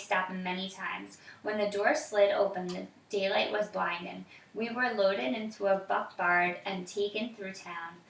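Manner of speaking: put-on reading aloud to a child, evenly; story narration. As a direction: tell the story calmly.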